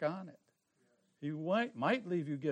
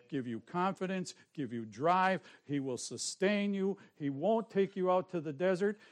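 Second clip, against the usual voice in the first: louder, driving sermon cadence; fiery preaching; 3 dB louder than usual. Acted. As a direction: preach it with full force to the congregation. Preaches at full force.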